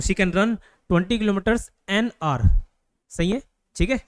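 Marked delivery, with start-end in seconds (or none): 0.0-2.5 very slow, word by word; dictating slowly. Shown as a demonstration. Teacher dictating the example to students, very slow. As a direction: spell it out so students can write.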